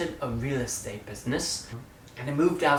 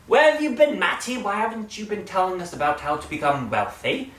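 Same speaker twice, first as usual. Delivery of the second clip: mock viewer; 7 semitones higher, 6 dB louder than usual.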